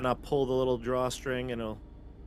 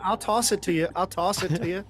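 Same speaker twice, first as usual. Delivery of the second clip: raised, louder hurried offer; urgent calling out; 7 semitones higher, 5 dB louder than usual. Pretend. Stopping the gargoyle before the trap, urgent calling out. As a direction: call it out high and urgent to stop them.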